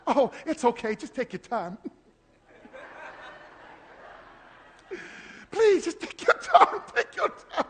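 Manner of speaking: high, sweet fake-polite voice; squeaky overpolite calm after toe crushed; mock pretty politeness. Preacher mocking polite response to injury, high sweet falsetto. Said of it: "you gonna try to be pretty?".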